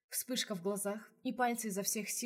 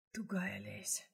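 hoarse, satisfied whisper, softer; a husky, pleased murmur; 5 dB quieter, much slower than usual. Acted. Razumovsky pleased with Lesya, husky whisper. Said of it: "довольным хриплым голосом".

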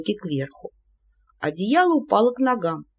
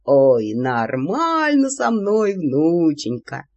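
put-on old man voice; 4 semitones lower, much slower than usual.

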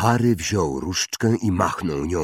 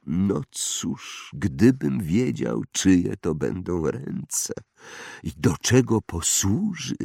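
put-on eccentric old wandmaker, musing; 3 semitones higher, slower than usual. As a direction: muse slowly, drawing out words with rises and falls. (ekscentryczny wytwórca różdżek, powolna zaduma)

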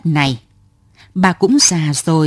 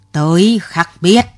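snappish. Acted. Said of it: "Cụ gắt gỏng".

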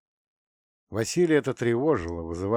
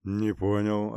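puzzled bass; slower than usual. Acted. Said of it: "озадаченно пробасил".

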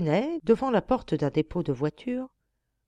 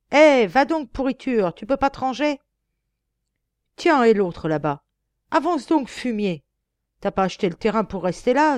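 loud, higher, jeering Parisian cabby; rowdy coachman; 4 semitones higher, 6 dB louder than usual. Acted. Cyclist-hating coachman loudly jeers at cyclists he runs down. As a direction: bawl insults at everyone on the road.

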